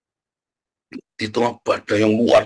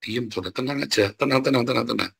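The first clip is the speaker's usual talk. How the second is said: hushed, soothing, much softer; soft calming; 6 dB quieter than usual. Acted. Preacher calming the congregation in a soft, soothing hush. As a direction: settle them down with a soft hush.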